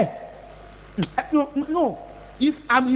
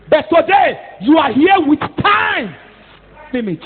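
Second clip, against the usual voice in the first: preaching shout; 3 semitones higher, 5 dB louder than usual. Real, not acted. Preacher warning congregation.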